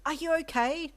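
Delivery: high, loud, worried call; alarmed call. A narrator's reading. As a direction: call out urgently across the shop. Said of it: "Deku called".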